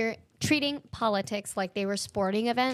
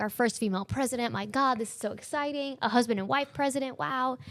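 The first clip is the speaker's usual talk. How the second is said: excited; 4 semitones higher than usual. Retold or imitated. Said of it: "we were so excited".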